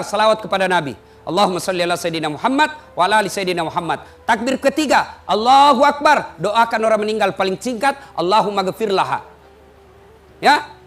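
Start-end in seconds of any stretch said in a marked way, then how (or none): 5.2-6.3 slow, drawn-out Allahu Akbar, louder; prayer call demo. Shown as a demonstration. Imam leading the funeral prayer, slow drawn takbir. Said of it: "kursus kilat sholat jenazah".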